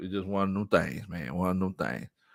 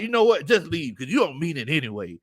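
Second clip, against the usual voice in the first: mock wife; 4 semitones higher than usual. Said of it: "this is how she talks to me".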